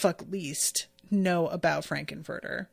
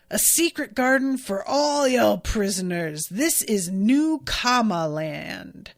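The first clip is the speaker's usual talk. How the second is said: grand announcement; 3 dB louder than usual. Retold or imitated.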